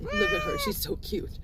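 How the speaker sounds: very high, breathy pet coo fading to a whisper. Real, not acted. Filming her cute cat, squeaky high coo. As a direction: gush over the cat in a tiny voice.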